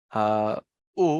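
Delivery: drawn-out low "উ" as a pure oo vowel; oo sound demo. Shown as a demonstration. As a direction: say "উ" like the oo at the start of umbrella. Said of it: "যেটাকে আমরা বাংলায় এইভাবে বলতে পারি যে উ sound".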